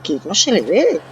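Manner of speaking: high, loud shocked yelp; startled cry. Real, not acted. Gamer startled by the hidden monster, high loud yelp. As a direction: jolt up in fright. Jump scare in horror game.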